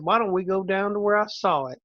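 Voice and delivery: a hint of a Southern accent; an old farmer's easy Southern accent, lightly voiced; understated Southern farmer. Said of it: "when you did a Southern accent".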